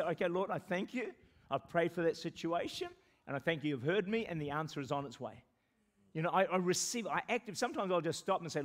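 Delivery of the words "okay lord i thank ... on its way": thankful prayer. Retold or imitated. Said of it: "I just say".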